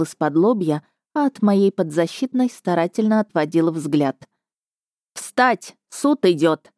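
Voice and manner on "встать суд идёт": solemn court announcement; grand entrance announcement. Acted. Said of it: "торжественно провозгласила секретарь".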